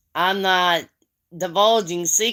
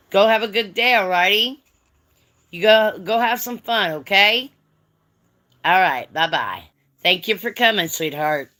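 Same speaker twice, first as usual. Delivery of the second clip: warm and motherly; 3 semitones higher, 4 dB louder than usual. Real, not acted. Sending a child off kindly.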